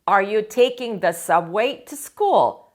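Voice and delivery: Are you taking the subway to school? said very slowly and clearly; slow, careful question for the class; slow model question. Shown as a demonstration. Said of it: "teacher models the question".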